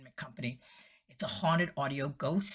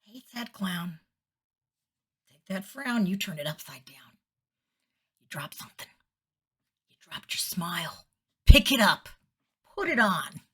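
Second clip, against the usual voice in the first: sad clown bit; 3 semitones higher, 5 dB louder than usual. Retold or imitated. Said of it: "be, like, in the middle of, uh, doing something, like".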